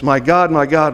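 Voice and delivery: understated loud outcry. Retold or imitated. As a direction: lift the voice on the quoted cry. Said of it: "cries out in a loud voice".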